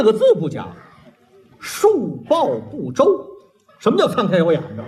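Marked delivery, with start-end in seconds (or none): 3.8-4.8 exasperated repeat. Real, not acted.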